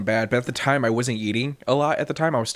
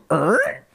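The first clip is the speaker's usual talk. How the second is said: short vocal record-scratch noise; abrupt music-stop sound effect; imitated music cutting off; 3 semitones higher than usual. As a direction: mimic the music suddenly cutting out. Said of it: "like the music cuts off".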